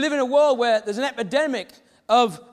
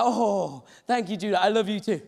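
tender, slightly lowered reply; touched; 4 semitones lower than usual. Retold or imitated. Father retelling his reply to his son's first "I love you", touched. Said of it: "Little tear maybe, little movement of the heart".

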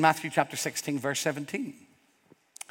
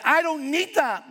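much higher, louder mock brush-off; dismissive refusal; 13 semitones higher, 4 dB louder than usual. Imitating someone rejecting the gospel, scornful mock refusal. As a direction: toss it away scornfully.

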